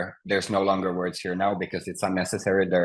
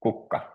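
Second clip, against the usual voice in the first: kukka with the stress on KUK; teacher's model of kukka, stressed up front; first-syllable stress. Shown as a demonstration. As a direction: hit the first syllable of kukka, then let -ka drop. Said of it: "you always stress the first syllable".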